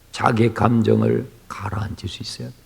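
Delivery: unvoiced whisper, settling the crowd; calm whisper. Real, not acted. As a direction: hush them down to calm.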